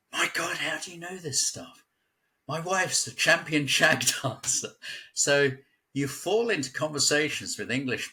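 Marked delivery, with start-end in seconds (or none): 0.1-4.7 high, amazed Carolina voice, breaking into a laugh; amazed Carolina man laughing about his wife; imitating a Carolina accent. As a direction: do the Carolina guy, stunned he knows this. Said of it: "That's Carolina".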